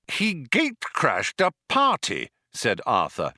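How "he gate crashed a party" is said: high-pitched, angry accusation; trembling with anger. A narrator's reading. Arthur accuses Zaphod of gate-crashing, angrily. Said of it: "trembling with anger".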